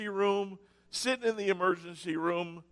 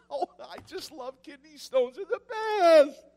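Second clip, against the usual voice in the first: laughing sarcasm; 7 semitones higher, 3 dB louder than usual. Retold or imitated. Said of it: "That's what this passage makes it sound like".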